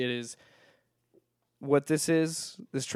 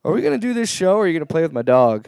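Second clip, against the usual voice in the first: exasperated; 9 dB louder, faster than usual. Real, not acted. Scolding co-host to refocus.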